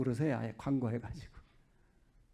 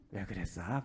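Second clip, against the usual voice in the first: Geumsan dialect; 7 semitones lower than usual. Acted. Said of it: "금산 사람들은 뭐라고 하나요?".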